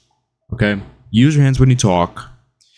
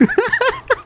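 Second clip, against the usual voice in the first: short high giggle; high laugh. Real, not acted. Still laughing.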